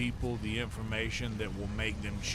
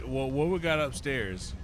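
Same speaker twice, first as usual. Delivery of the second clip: put-on drunk British accent; 4 semitones higher, 3 dB louder than usual. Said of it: "I don't do a very good drunk British accent".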